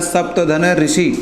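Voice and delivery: सप्तधन ऋषि broken into its parts, said slowly; slow split-up word. Shown as a demonstration. Teacher splitting the word for students, slow and deliberate. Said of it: "इसके जो टुकड़े करते हैं".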